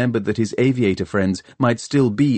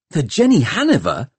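high, startled question; taken aback, pitch leaping up; astonished gasp; 6 semitones higher, 4 dB louder than usual. A narrator's reading. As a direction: gasp it in sudden amazement. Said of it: "gasped Tom".

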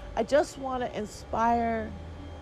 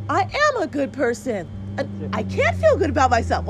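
louder affirmation; 3 semitones higher, 6 dB louder than usual. Shown as a demonstration. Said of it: "All day I can say".

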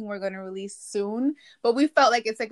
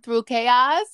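talking mid-sip of a drink; words around a sip; while sipping a drink; 3 semitones higher, 5 dB louder, slower than usual. Real, not acted. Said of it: "Sorry, I'm drinking".

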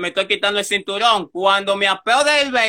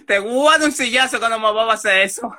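laughing while quoting; 2 semitones higher, much faster than usual. Retold or imitated. Retold threat again, laughing.

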